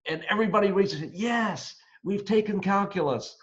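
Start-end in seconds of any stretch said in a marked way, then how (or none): 1.1-3.4 higher-pitched, eager chorus of students; excited students. Retold or imitated. Students answering the professor's question, excited. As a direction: imitate students proudly answering yes. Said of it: "And they're all excited".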